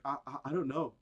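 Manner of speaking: a hint of a flustered, stammering Zuckerberg; dumb Zuckerberg. Mocking Zuckerberg caught off guard, lightly flustered. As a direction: stammer it out like a clueless tech boss. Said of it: "Mark looked like an idiot".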